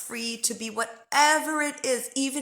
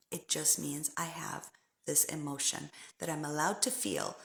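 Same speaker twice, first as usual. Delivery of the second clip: gentle self-talk; 2 semitones lower, 4 dB quieter than usual. Shown as a demonstration. Modelled self-talk, soft.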